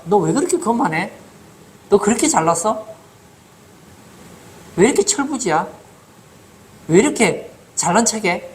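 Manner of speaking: imitated older brother's telling-off; lightly acted indignant rebuke to a younger sibling; scolding. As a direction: scold like an exasperated big brother. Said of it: "그 형들이 야단을 치잖아요".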